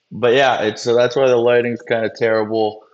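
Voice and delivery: echoey room sound; cave echo. Real, not acted. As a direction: voice ringing in a cave. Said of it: "You got a cool sounding echo".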